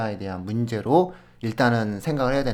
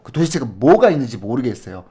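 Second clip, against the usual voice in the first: mild mock outburst; 6 dB louder than usual. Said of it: "화를 버럭 내면서".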